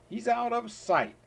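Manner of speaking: sudden high, loud finish; high excited ending. Acted. Reading the rabbit rhyme to a child, high and thrilled. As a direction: shoot the voice way up.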